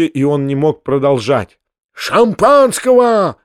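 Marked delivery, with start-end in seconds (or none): 1.9-3.4 high, loud bellow; roaring. Acted. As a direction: roar for champagne. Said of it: "заревел Степан Алексеевич". (громкий рёв)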